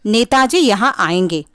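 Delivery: नेताजी यहाँ आएंगे said as a simple statement with a falling end; plain statement. Shown as a demonstration. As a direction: state it flatly like a full stop. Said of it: "पूर्ण विराम चिन्ह का प्रयोग किया गया है". (सामान्य कथन, अंत में उतरता स्वर)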